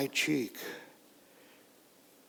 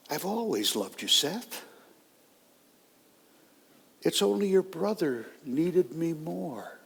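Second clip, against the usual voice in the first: softer, a hint of a gentle father; tender father; 4 dB quieter than usual. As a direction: reassure the son quietly before leaving. Father's soft final plea.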